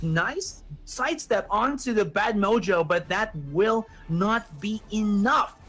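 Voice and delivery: high-pitched hype call, easing toward the end; excited play-by-play. Real, not acted. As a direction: ride the peak of the fight, then settle. Live play-by-play of a team fight.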